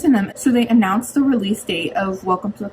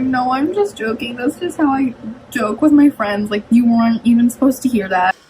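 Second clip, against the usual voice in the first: higher-pitched, embarrassed protest; retold backpedaling; 4 semitones higher than usual. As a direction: explain yourself in a mock fluster. Retold backpedal after joke overheard.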